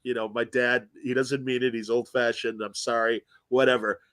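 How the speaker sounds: low, softly voiced heads-up about Dad; apologetic warning. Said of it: "he warned him, and he goes".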